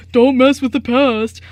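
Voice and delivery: slow, slightly stern teacher voice; a hint of scolding teacher; mock teacher lecture. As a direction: lightly imitate the lecturing teacher. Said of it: "He was all".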